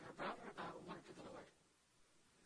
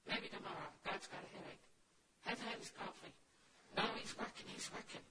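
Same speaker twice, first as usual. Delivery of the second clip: mock dismissive heaven. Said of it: "heaven say".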